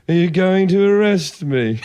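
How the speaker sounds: put-on posh English accent, slowed down. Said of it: "in a posh English voice".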